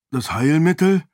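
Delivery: high, loud surprised question; startled echo. Acted. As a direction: catch on the word in surprise. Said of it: "fragte der Mann überrascht".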